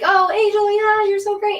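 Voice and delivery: high, loud gushing praise; gushing friends. Retold or imitated. Everybody on the call gushing over Angel, high and loud. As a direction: mimic friends fawning over her. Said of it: "Everybody was like".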